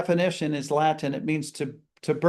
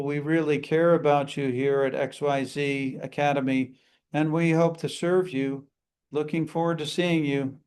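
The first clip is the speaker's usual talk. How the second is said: flat monotone customer greeting, lower; 4 semitones lower than usual. Shown as a demonstration. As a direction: drone it out with no inflection. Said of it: "if you have a monotone voice".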